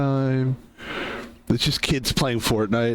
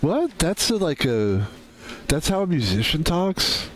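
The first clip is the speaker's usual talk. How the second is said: mock disbelief; 3 semitones higher than usual. Incredulous reaction to retold talk.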